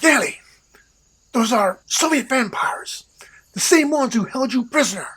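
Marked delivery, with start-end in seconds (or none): 0.0-3.0 alarmed whisper. Acted.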